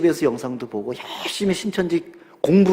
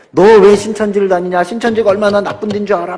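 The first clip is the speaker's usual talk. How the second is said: loud scolding father, voice raised high; scolding parent; 5 semitones higher, 7 dB louder than usual. Retold or imitated. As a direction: scold the child as an angry parent. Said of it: "야단치고 막 혼내고". (화난 부모의 야단치는 목소리)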